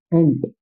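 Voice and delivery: एंट said with an open e sound at the start, short and clear; demo word. Shown as a demonstration. Teacher shows the students how to read एंट. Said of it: "एंट को ऐसे ही ना पढ़ेंगे".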